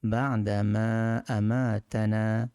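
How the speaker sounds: আমাতানা drawn out slowly; slow demonstration. Shown as a demonstration. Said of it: "ইঙ্গিত করে যে এটা আইন". (ধীরে ধীরে বলা)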